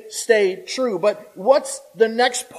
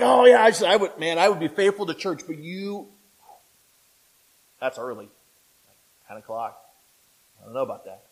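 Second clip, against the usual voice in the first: excuse-making churchgoer. Retold or imitated. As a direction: lightly play a lukewarm member making excuses. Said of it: "people are like".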